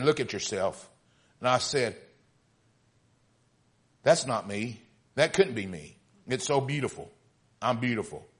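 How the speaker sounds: storyteller reading aloud, pausing between phrases; story narration. A narrator's reading. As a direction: read it as a measured parable. Reads teacup story aloud.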